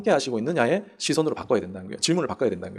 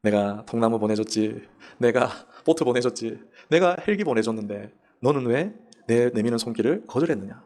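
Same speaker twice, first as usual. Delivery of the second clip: God's rebuke; 5 semitones lower, slower than usual. Acted. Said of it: "하나님 뭘 하시겠어요?".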